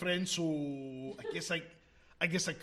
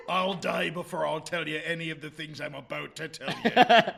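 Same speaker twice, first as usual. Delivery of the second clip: mock defiance; 8 dB louder than usual. Player mocks Hagrid.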